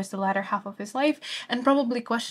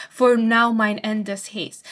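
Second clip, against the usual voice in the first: slow, louder, "now" weighted; stress on now; 5 dB louder, slower than usual. Shown as a demonstration. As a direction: press on "now" with urgency. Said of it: "it emphasizes now".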